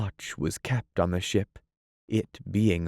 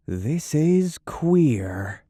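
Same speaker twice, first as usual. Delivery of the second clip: high, slow, louder puzzled gasp; 7 semitones higher, 4 dB louder, much slower than usual. Acted. Smee bewildered by the captain's order. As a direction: breathe it out in disbelief. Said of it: "Smee gasped".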